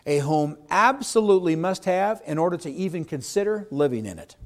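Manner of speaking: slow, deliberate, every word weighed; slow down and make the point land; slow dramatic delivery. Shown as a demonstration. Agent demonstrating his key question, slow and dramatic. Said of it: "I slowed down, and I inflection of my voice went up".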